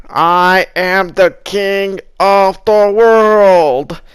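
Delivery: grandiose king of the world rant; slow, booming self-crowned ruler; megalomaniac rant. Pretend. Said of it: "As Martin Luther King said".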